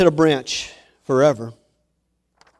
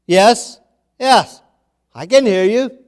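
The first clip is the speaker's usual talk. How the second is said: eager reply; 8 semitones higher, 8 dB louder than usual. Acted. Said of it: "he said".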